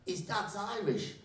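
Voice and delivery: mildly puzzled teacher interjecting; sudden realisation. Acted. Teacher who knew the family chiming in, mildly surprised.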